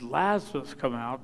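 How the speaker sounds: "Lazarus" leaned on, "come out" dropped; single out the name "Lazarus"; stress on Lazarus. Acted. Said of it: "because if he hadn't said "Lazarus".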